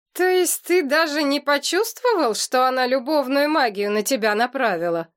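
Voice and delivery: can't believe what he hears; mild astonished question; surprised. Acted. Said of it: "удивился Миррей".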